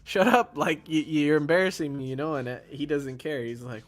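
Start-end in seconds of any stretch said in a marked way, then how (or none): 0.0-2.0 embarrassed snap. Retold or imitated. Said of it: "the sister is sitting there like".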